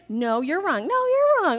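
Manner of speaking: indignant back-and-forth, rising high and loud on the repeat; mock argument with a child. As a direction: escalate a silly squabble. Acted quarrel with a small child.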